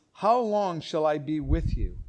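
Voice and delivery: grieved. Shown as a demonstration. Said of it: "He's grieved".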